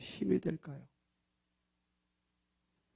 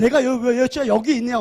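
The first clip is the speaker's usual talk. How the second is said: mock scolding God; 7 semitones higher, 11 dB louder than usual. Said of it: "혼내시는 건가요?".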